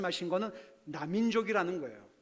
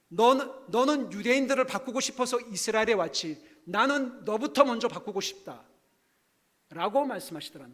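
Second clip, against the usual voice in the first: stern scolding; 3 semitones higher, 5 dB louder than usual. Retold or imitated. God scolding the preacher.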